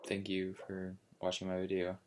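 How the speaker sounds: flat, quiet, sleepy sign-off; monotone. Real, not acted. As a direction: drone it out in a monotone. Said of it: "Sorry for being so monotone".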